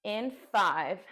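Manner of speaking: strained, trembling count; shaking with effort. Real, not acted. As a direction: let the effort shake the voice. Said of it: "You hear the shake in my voice".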